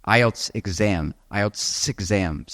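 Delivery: "ielts exam" slow, the s sliding into "exam"; linked words. Shown as a demonstration. Teacher demonstrating connected speech, slow linking of the phrase. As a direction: join "ielts" and "exam" smoothly. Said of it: "connect words like".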